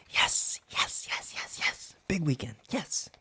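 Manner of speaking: whispered yes, yes; whispering. Real, not acted. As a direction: gloat under your breath. Whispered gloating.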